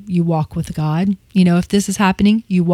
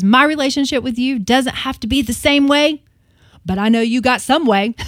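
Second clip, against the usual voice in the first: higher-pitched, passionate imitation of a prayer; retold passion; 5 semitones higher than usual. Host retelling the Bible teacher's prayer to God, with passion. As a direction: echo her passionate plea, pitched up. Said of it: "oh, just passion".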